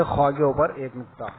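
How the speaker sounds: "خا" as a heavy, rounded khwaw; throat kh with a dark vowel in "خا"; thickened khaa. Shown as a demonstration. Teacher leading a repeat drill, thick rounded "خا". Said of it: "خا کو موٹا کر کے".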